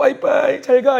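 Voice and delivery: mock sad, high, loud, fake-tearful voice.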